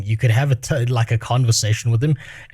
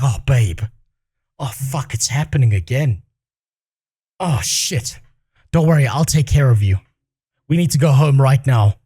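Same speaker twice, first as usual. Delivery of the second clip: mock caring boyfriend. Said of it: "be like".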